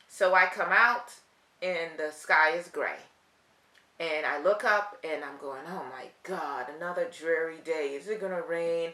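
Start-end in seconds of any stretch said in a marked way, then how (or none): 5.6-8.9 despondent, gloomy, fed up and irritated. Acting out looking up at a gray sky, mock-gloomy and irritated. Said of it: "Did you hear how I started to feel? You like you could hear it in my voice. I'm despondent. I'm getting irritated".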